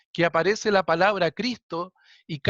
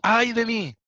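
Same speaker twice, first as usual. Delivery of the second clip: exclaiming; 5 semitones higher, 3 dB louder than usual. Acted. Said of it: "Isaías dice".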